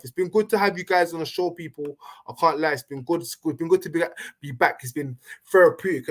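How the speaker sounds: talking while being shaken about; shaking and wobbling. Real, not acted. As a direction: voice jolted by a bumpy ride. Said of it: "sorry for the shaking and wobbling".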